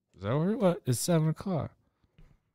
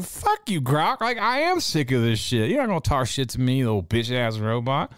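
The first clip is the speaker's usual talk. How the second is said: raised, heated snap at the robot; angry retort; 3 semitones higher than usual. Retold or imitated. Mock-furious comeback to the AI roasting him. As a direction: tell the AI off like you mean it. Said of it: "I was like".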